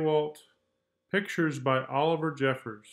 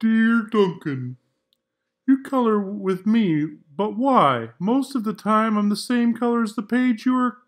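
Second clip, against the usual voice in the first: lonely White Crayon; 6 semitones higher, 8 dB louder than usual. Acted. White Crayon's letter voiced.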